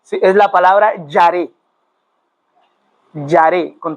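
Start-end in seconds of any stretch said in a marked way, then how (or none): 1.1-3.8 "yaré" stressed on the final É; acento final en E. Shown as a demonstration. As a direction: say "yaré" with the weight on the last syllable. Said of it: "tilde en la E". ("yaré" con acento agudo en la É final)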